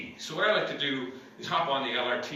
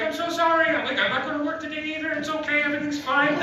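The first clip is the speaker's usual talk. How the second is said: retold quote; 12 semitones higher, 4 dB louder than usual. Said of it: "they'd be like".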